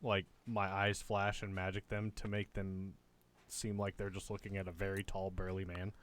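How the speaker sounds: ordinary talk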